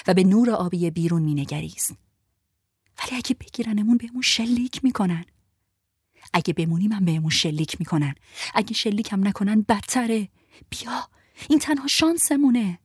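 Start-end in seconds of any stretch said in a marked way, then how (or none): 3.0-5.2 scared whisper. Acted. 6.3-12.8 mouthed urgent plea. Acted.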